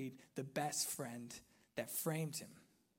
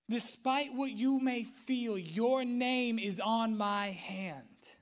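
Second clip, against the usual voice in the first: raised, higher voice, stretching the last words slowly; emphatic reassurance; 5 semitones higher, 7 dB louder, slower than usual. Acted. God to the one who feels forgotten, emphatic promise. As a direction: declare it firmly as God to a doubter.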